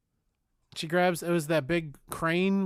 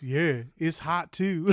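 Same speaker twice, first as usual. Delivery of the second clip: slow laughing reply; much slower than usual. Retold or imitated. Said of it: "And he goes".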